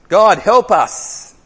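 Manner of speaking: high, loud and slow cry for help; desperate plea. Acted. The people pleading with God for help, slow and desperate. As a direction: stretch it out, begging.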